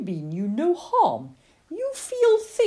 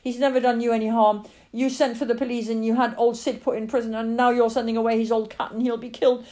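put-on raised, loud child's outburst, building in force; screaming tirade; 7 semitones higher, 8 dB louder than usual. Lily screams at her father about the cat, impassioned fury. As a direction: hurl accusations, building to sustained fury. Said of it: "screamed at her father, tears pouring down her face".

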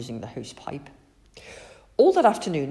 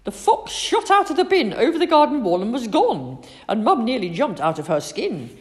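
excited; 6 semitones higher, 7 dB louder than usual. A narrator's reading. Excited climax.

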